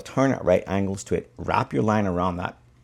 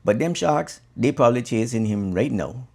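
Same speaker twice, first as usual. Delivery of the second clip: hammed-up amused guide; 5 semitones higher than usual. And he goes.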